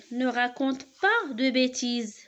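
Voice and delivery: a firm teacher's command; command read aloud. Shown as a demonstration. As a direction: tell them off firmly, slowly. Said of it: "qui donne un ordre".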